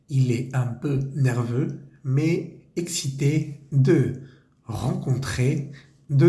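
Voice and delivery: slow, careful French read-aloud for learners; model reading. Shown as a demonstration. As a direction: read the text clearly for students. Rereads the French text.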